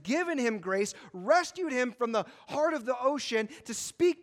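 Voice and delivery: high, loud, impassioned preaching; full-force preaching. Acted. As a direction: preach it out with rising outrage.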